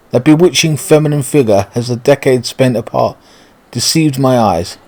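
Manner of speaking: lightly voiced posh English suitor; a touch of theatrical English gentleman. Suitor greets his long-lost love, lightly posh and theatrical. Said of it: "speaking like that if they're really posh".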